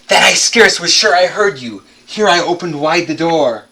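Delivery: loud, emphatic recitation; loud and stirred, pushing past fear; bold loud declaiming. A narrator's reading. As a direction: call out boldly into the dark. Narrator addresses the visitor boldly.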